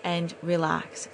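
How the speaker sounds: calm, grateful resolve; relaxed. Retold or imitated. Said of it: "took a breath and relaxed".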